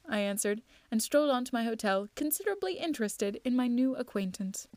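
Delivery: measured audiobook reading with lively dialogue; lightly acted storytelling; story narration. A narrator's reading. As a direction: read the detective tale aloud. Reads a detective story aloud.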